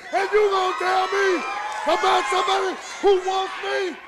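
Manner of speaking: boastful shouting. Acted. Wrestler brags to his manager about beating rivals, shouting. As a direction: bark your record at the manager.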